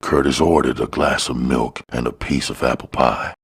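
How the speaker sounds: plain reading voice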